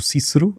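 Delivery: "Cícero" said "Kíkero", with hard k sounds; both Cs in "Cícero" as k; Latin pronunciation of Cícero. Shown as a demonstration. Linguist showing the ancient name, hard-k Cícero. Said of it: "Os latinos ainda liam que".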